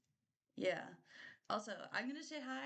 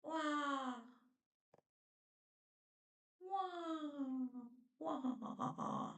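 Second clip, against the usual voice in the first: high Mario death cry; Mario dying wah; 6 semitones higher, much slower than usual. Pretend. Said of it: "I just sound like Mario dying".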